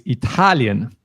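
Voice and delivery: Italian with the stress on the second syllable; Italian, lean on the second syllable. Shown as a demonstration. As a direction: correct German stress, Italian. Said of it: "the stress here is really on the second syllable".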